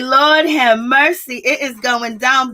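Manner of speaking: mock-dismayed, stretched-out exclamation; exasperated reaction. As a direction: draw it out like pleading for mercy.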